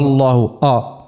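آ in الله made thick and dark; over-emphatic opening آ, a beginner's mistake; wrongly heavy alif. Shown as a demonstration. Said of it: "ينجم يفخمه".

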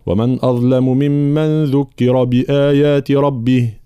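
measured reading of the verse, halting on ربه; stop after ربه. Shown as a demonstration. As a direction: draw out بآيات ربه slowly, then stop on a silent ha. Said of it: "وأقف". (الوقف على «ربه» بعد قراءة متأنية)

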